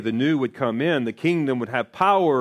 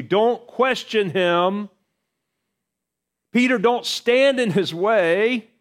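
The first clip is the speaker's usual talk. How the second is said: fervent exhortation; 8 semitones higher, 6 dB louder than usual. Acted. Preacher urging Peter and hearers to listen, fervent. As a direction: plead with them to hear Him.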